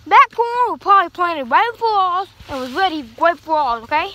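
mock scolding, pitch up and punchy at the start; playful retold telling-off; sassy comeback. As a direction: put Mimi in her place, half-joking. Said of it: "And I'm like".

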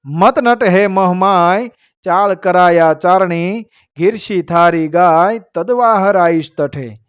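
measured, metrical couplet delivery; verse recitation. A narrator's reading. Storyteller reciting a couplet to listeners, verse recitation. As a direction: recite it as an old heroic verse.

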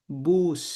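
বুস said with an oo vowel, not বাস. Shown as a demonstration. German teacher correcting বাস to বুস for students. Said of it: "বাস না, বুস".

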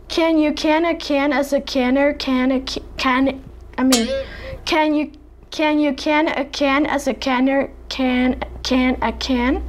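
light attempt at an American accent, "can" said with a flat a; lightly put-on American accent for the tongue twister. Shown as a demonstration. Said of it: "Let's try American accent".

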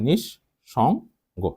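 নিঃসঙ্গ very slowly as nish, shong, go; drawn-out dictation of নিঃসঙ্গ, sh on both syllables; syllable-by-syllable pronunciation. Shown as a demonstration. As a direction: pause between each syllable of নিঃসঙ্গ. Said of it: "যা উচ্চারণ করি আমি তাই".

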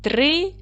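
"Вітрильник" split as ві-три-льник with pauses; "Вітрильник" in spaced-out syllables. Shown as a demonstration. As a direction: break "Вітрильник" into three separate syllables. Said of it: "Поділіть слово на склади".

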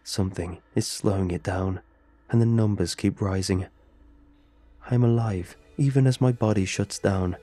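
flat monotone computer reading; robot voice. Acted. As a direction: say it like a text-to-speech program. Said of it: "The robotic voice spoke up once more".

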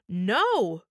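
loud, sharp no; commanding shout. Acted. Christie halting Blackie mid-pull, commanding shout. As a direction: stop him cold with the word. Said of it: "Christie shouted in sudden command".

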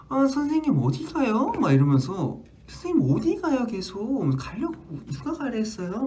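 put-on a little kid nagging the teacher; child demanding. Child questioning where the teacher is going, demanding. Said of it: "따지는 거예요".

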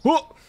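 short high-pitched "whoa"; high little hoot; startled whoop. Real, not acted. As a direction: let out a quick, high yelp of surprise. Sudden exclamation while playing.

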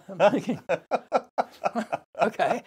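laughing in disbelief. Real, not acted. The surfer laughing as he retells the gangster's offer. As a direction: chuckle through it, high and amused.

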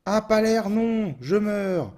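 high, slow dismayed wail; panicking gamer. Real, not acted. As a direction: wail as your character dies. Dying in game.

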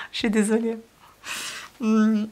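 real laugh, quick sorry; laughing apology. Real, not acted. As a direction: break up over a slip. Reader laughs at her own slip.

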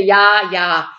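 loud, irritated cut-in; annoyed snap. A narrator's reading. Burglar cuts off the chattering Käthe, thoroughly annoyed. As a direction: snap it to shut her up. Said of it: "patzte Ede total genervt".

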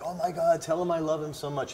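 gushing fan. Retold or imitated. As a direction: gush lightly, as if quoting a starstruck relative. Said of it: "he was like".

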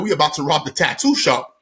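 mildly calm retold announcement. Robbers naming their next target, calm. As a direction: state it casually, as routine. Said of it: "Again, calm".

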